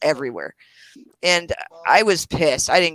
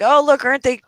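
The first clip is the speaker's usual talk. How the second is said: mock cooing; 8 semitones higher, 4 dB louder than usual. Acts out cooing over cute kids.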